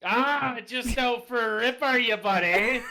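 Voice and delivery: high, loud Canadian buddy voice; Canadian accent. Pretend. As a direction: play the friendly Canadian buddy. Mock Canadian buddy talk.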